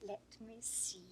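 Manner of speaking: whispering. Acted. Playful hushed musing.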